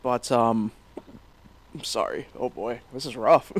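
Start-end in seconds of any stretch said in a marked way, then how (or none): 1.7-3.5 apologizing through hiccups; breaking up with hiccups. Real, not acted. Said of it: "I've got hiccups here".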